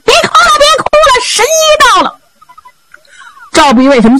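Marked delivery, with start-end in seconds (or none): 0.0-2.2 high ringing call across the yard. Acted. Zhao Bi calls to the weeping friends inside, high ringing shout. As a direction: sing it out high to calm the crying room. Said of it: "赵碧一边走一边嚷".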